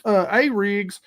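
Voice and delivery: put-on high voice for the other guy; imitating arguing anglers. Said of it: "people there. They're like".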